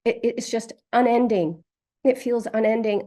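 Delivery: loud tearful sobbing. Real, not acted. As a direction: sob the words out. Client sobbing in session.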